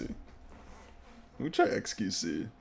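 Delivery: drawn-out whispered "Let me try X Q C"; slow whisper. Shown as a demonstration. Streamer to the game, choosing xQc in a slow whisper. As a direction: breathe it out slowly, almost secretive. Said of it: "I don't know why I'm so jolly".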